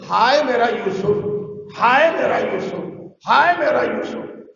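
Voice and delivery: mild mournful wail leaning on ہائے; a father's understated keening, repeated; grieving lament. Retold or imitated. Jacob mourns his lost son, a mild lamenting wail. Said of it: "ان کا تکیہ کلام یہی ہے".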